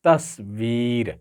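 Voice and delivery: तस्वीर said slowly, syllable by syllable; teacher's slow model of तस्वीर; model pronunciation. Shown as a demonstration. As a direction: spell out तस्वीर slowly and clearly. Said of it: "तो इसका तलफ़ुज़ कुछ यूँ बनेगा".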